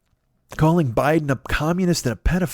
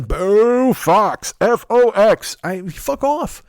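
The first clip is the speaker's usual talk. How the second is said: loud, higher-pitched jeering chant; mock fan booing; 7 semitones higher, 5 dB louder, much slower than usual. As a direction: boo and chant like a rival sports fan. Mimics rival fans booing and chanting.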